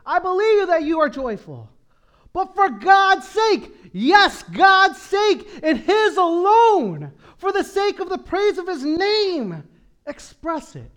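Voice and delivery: impassioned shouted exhortation; full-force preaching. Real, not acted. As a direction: thunder it from the pulpit. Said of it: "preaching at full force".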